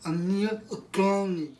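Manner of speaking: high, breathless plea on the phone; panicked emergency call. Acted.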